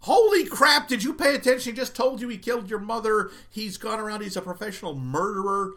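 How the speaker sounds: loud, high disbelief; exasperated. Real, not acted. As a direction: throw up your hands at her. Exasperated rant at the character.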